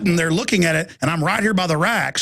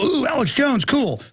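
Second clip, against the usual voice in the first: higher-pitched opening ooh, imitated; mock admiring passer-by; 7 semitones higher than usual. Passers-by spotting his magazine, mock admiring.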